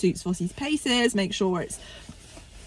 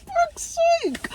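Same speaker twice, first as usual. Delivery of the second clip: high exasperated swear; frustrated outburst; slower than usual. Retold or imitated. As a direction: blurt it out in sudden frustration.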